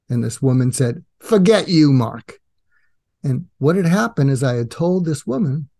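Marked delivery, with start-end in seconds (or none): 1.2-2.4 emphatic, louder mock dismissal; retold brush-off. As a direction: imitate a mildly angry rebuff. Retold woman's angry brush-off.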